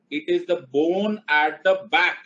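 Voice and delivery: each word drawn out, very slow; mock-serious slow explanation; slow deadpan spelling-out. Shown as a demonstration. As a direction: lay it out word by word like it's obvious. Teacher spelling out a joke.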